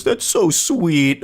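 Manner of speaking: slow, drawn-out fake swooning; mock touched. Commentator mocking a creepy love text, mock touched. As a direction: stretch it out, pretending to melt.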